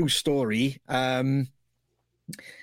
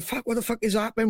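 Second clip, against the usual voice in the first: fast, higher panicked yelp; quick, high, mock-alarmed blurt as the pub fills with gas; panicked quote; 6 semitones higher, faster than usual. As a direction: mimic Shane's rushed panic in the tear gas. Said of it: "Shane, I remember going".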